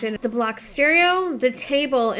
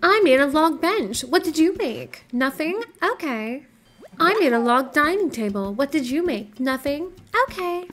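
put-on a lightly raised, childish boasting voice; silly put-on voice; 4 semitones higher than usual. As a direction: brag to the villagers in a mildly silly higher voice. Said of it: "I don't know why I'm doing this voice".

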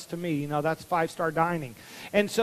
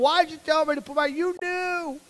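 put-on accusing kid; 8 semitones higher than usual. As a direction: point the finger. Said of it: "I'm like".

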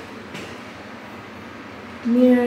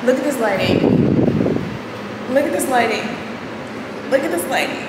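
excited; 4 semitones higher, faster than usual. Shown as a demonstration. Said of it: "repeated with rising pitch".

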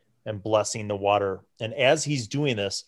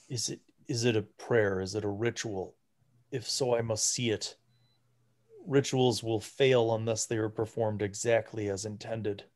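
put-on hushed, softer voice of a frail old priest; 4 dB quieter than usual. Frail priest questions the party about the ritual, hushed.

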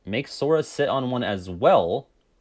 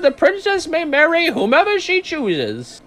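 put-on much higher, slow old sultan; old man voice; 6 dB louder, slower than usual. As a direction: royal old man proclaiming. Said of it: "It's me, my old man voice".

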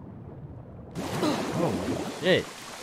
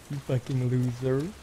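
mock insult; 3 dB quieter than usual. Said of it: "I'm joking, y'all".

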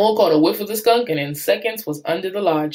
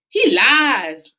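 louder, higher snarl; 6 semitones higher, 6 dB louder than usual. Acted. Bate accusing Sam to the officers, snarling. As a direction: spit the accusation out. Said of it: "snarled Bate".

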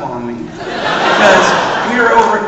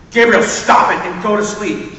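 firm, slow dad voice calling upstairs; impression of my father; 3 dB louder than usual. The speaker calling up the stairs to Gabriel, mock stern dad. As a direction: channel your stern father. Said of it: "my best impression of my father".

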